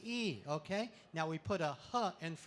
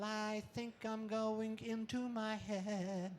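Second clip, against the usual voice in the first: inner thought voice; 4 semitones higher, much slower than usual. Acted. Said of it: "If you start thinking".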